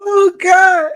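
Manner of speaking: high, strained gasps while laughing; squeaky laugh-cry plea to stop. Real, not acted. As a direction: try to stop yourself laughing. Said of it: "I'm crying laughing now".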